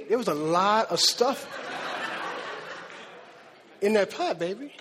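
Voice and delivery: telling her through laughter; laughing. Retold or imitated. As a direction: let the laugh spill into the pot complaint. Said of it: "I was like".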